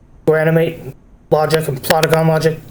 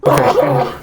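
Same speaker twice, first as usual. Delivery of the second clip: sneezing; 3 dB louder than usual. Real, not acted. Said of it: "Pardon the sneeze".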